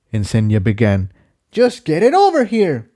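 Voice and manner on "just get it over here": higher character voice, urgent call, stress on over; shouted. A narrator's reading. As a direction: call it across the cavern, mildly raised. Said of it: "Jigsaw shouted".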